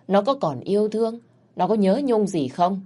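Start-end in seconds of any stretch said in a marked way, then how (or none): none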